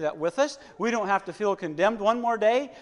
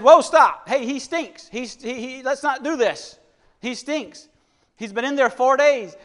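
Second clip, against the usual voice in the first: higher-pitched retold objection, loud at the start; alarmed protest; 4 semitones higher, 7 dB louder than usual. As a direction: act out Martha balking, pitch raised. Acting out Martha's protest at the tomb.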